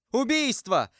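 loud, high cry; shouting. A narrator's reading. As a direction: scream it out in alarm. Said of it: "закричал Патрик".

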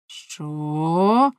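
loud outburst rising at the end; shouted disbelief. A narrator's reading. Husband hearing the monk's name, shouting. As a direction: burst out with a loud, shocked question. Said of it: "закричав Ламе".

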